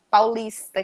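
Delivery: Paulista com S chiado, paulishta. Shown as a demonstration. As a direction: puxe o S de Paulista. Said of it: "eles puxam muito pra esse S". (Paulista com S chiado da Serra Amazônica)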